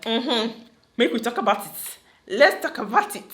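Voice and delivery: excited gossip. Retold or imitated. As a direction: lean in like you can't wait to hear the gist. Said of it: "She gets so excited whenever somebody's talking about gist".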